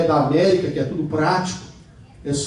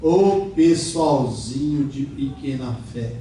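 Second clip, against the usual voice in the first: gentle rebuke; 4 semitones lower, slower than usual. Retold or imitated. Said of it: "Jesus fala assim".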